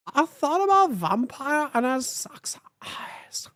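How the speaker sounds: breathy dreamy whisper. Acted. Reader swooning over vampire, whispered. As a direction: whisper it like a secret crush.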